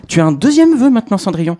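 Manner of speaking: a lightly voiced godmother announcing the next wish; fairy godmother. Godmother tells Cendrillon about her second wish.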